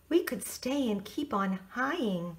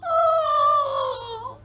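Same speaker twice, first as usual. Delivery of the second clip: sad sigh; 10 dB louder than usual. Real, not acted. Host's sympathetic reaction.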